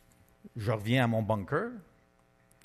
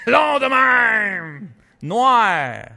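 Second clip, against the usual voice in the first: higher, louder, slow excited shout; 8 semitones higher, 11 dB louder, much slower than usual. Retold or imitated. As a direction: stretch it out in astonishment. Reliving seeing the snake.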